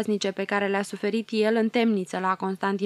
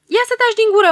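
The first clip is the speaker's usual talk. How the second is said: spiteful retort; 13 semitones higher, 11 dB louder, faster than usual. Acted. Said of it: "mormăie în ciudat".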